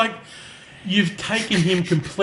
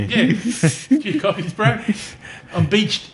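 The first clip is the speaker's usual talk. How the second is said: put-on higher Kiwi accent, laughing; New Zealand accent; 7 semitones higher than usual. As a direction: ham up a Kiwi bloke. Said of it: "horrible New Zealand voice".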